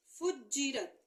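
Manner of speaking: फुज्जिरत with a held double j; doubled jeem. Shown as a demonstration. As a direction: lean on the jj in फुज्जिरत. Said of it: "जीम के ऊपर शद है".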